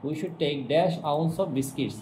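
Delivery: very slow, word-by-word reading; slow dictation. Shown as a demonstration. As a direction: read it out slowly for the class to follow. Teacher reads exercise sentence aloud. (ধীরে ধীরে বাক্য পড়া)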